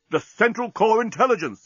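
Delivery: the penny drops; exclaim. A narrator's reading. Captain grasping the answer, excited. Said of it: "exclaimed Bolfas".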